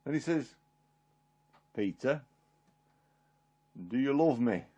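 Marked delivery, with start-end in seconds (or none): 1.8-4.6 soft, low, measured question; tender retold asking; gentle question. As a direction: ask it quietly, pausing after the name. Jesus asks again, gently.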